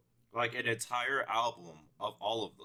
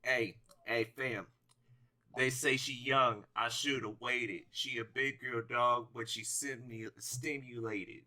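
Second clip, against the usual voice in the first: Rapper voice. Retold or imitated. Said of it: "Here's my perfect, uh, rapper voice".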